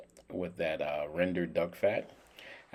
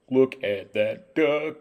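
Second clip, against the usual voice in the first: louder, higher, drawn-out gloating; gleeful showing-off; 6 semitones higher, 6 dB louder, slower than usual. Real, not acted. Cook showing off his roast duck to viewers, gleeful showing-off. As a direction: stretch each word out loud and high.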